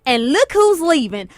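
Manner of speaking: put-on country accent. Principal scolding people leaving graduation, imitated country accent. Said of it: "she has a country accent".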